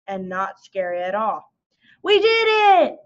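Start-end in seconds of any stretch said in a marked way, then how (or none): 2.0-3.0 much higher, much louder cheer of victory; triumphant cry. A narrator's reading. Reading to children, the three friends cheer their win. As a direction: shout it like you just won. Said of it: "cried the wizard, the fairy".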